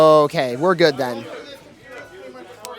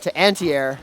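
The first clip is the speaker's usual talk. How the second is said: lively esports caster call; play-by-play commentary. Acted. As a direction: call the action as it happens. Live play-by-play of the match.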